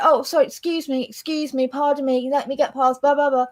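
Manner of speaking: polite apologising. Retold or imitated. Neighbour mimicking English people squeezing past, over-polite. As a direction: imitate someone over-politely excusing themselves. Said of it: "you're so polite".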